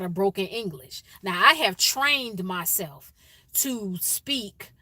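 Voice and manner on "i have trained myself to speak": slow, deliberate wording; measured and articulate; trained, careful speech. Shown as a demonstration. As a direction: speak slowly as if trained to articulate. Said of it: "I'm not talking like this".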